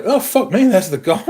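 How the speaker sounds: high, excited retold surprise; surprised exclamation. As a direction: squeal it like finding a lost treasure. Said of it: "and I was like".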